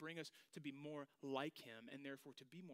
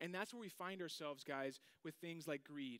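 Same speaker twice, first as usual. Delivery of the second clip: ordinary talk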